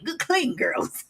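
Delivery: drawn out slow and mocking; slow mocking drawl. Slowly teasing herself as a good clean girl. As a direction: stretch each word slowly, teasing.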